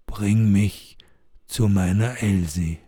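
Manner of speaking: a hint of a mournful old ghost; sad ghost. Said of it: "Der Geistermann sieht traurig aus und sagt".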